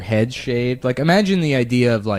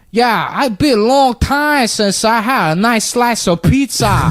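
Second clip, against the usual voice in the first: much higher, louder mock New York accent mixed with an immigrant lilt; hybrid New York accent; 11 semitones higher, 4 dB louder than usual. Immigrant cop who learned English from New York cops, mock hybrid accent. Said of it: "like, this weird hybrid".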